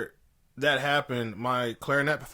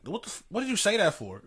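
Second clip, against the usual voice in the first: higher, mock-yelled outrage; retold yelling; 7 semitones higher, faster than usual. Yelling at the grad assistant in the hallway, retold outrage. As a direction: vent at him in the hallway. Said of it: "And then I'm yelling".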